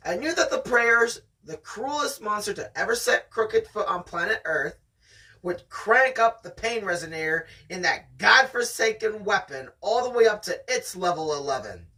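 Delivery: steady read-aloud storytelling voice; story narration. Acted. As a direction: read it like the audiobook. Reading the novel aloud.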